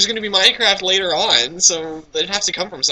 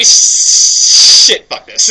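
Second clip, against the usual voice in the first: mock creeper voice; 2 semitones lower, 7 dB louder, much slower than usual. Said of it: "they just go like".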